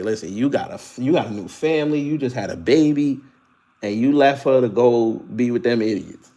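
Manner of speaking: a touch of calm fatherly talk; lightly voiced, calm father lecturing. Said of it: "he said it so calm".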